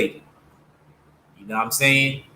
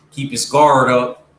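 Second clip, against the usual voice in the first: put-on louder California accent with a heavy R in "guard"; Cali accent retry; 4 dB louder than usual. Retrying the Suge Knight line in a Cali accent. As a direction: roll out "guard" with an extra R, Cali style. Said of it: "With the extra R in the words".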